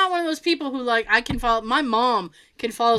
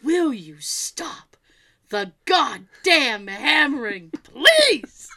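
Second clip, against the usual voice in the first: Scrooge quote; 3 dB louder, much slower than usual. Retold or imitated. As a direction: quote Scrooge losing patience. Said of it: "And he goes".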